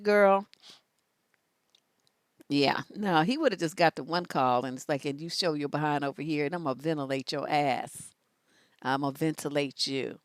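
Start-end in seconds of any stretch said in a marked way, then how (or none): 5.0-10.2 low menacing threat. Acted. Acted threat on the one call.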